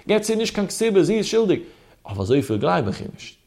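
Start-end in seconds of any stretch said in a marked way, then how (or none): 0.0-1.6 high, quick protest without much volume; high-pitched mock outcry; mock shrieking mother-in-law. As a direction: imitate a mother-in-law crying out her accusation. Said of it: "Der Schwieger schreit".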